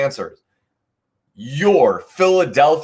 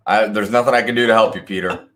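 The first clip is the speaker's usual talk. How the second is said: mock dismissive; 3 semitones lower, much faster than usual. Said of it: "I'm just kidding".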